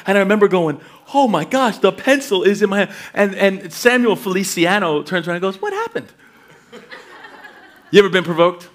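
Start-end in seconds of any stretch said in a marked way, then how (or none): 1.1-2.9 higher-pitched exclamation of alarm; mock shock. Second grader finding pencil in his hand, mock alarm. 5.6-6.1 very high, soft little voice; oblivious kid. Retold or imitated. Classmate turning round after being poked, high soft mock-innocent voice.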